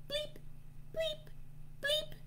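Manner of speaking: tiny, very high soft bleeps; toy bleep noise. Shown as a demonstration. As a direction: imitate an electronic toy bleeping. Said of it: "Let's try those sounds".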